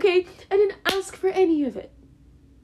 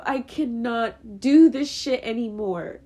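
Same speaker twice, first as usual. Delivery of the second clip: crying; 4 semitones lower than usual. Real, not acted. Breaking down, exhausted.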